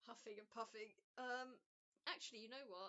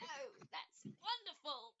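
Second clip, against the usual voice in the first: higher, louder, slow, effortful; straining while lifting; 7 semitones higher, 6 dB louder, slower than usual. Acted. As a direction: push the words out under a heavy load. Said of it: "you can hear the strain in Elizabeth's voice".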